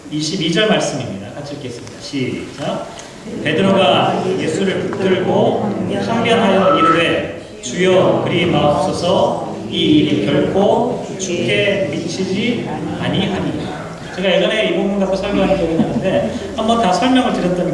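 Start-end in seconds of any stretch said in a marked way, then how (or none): 3.4-14.1 slow, measured Bible reading; scripture reading. Acted. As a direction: read each verse slowly and solemnly. Reads scripture aloud together. (천천히 낭독하는 성경 봉독)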